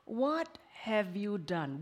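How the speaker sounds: slow hushed whisper; whispered question. Retold or imitated. Preacher voicing God's question in a slow whisper. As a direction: ask it gently like God would. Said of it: "What's the third question?".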